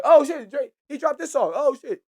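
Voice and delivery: mock hype. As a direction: ham up the fans' excitement over a rapper. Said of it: "niggas like".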